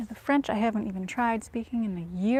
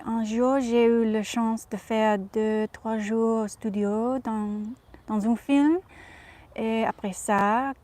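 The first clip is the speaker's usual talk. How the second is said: put-on Audrey's French accent. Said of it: "speak in her accent in French".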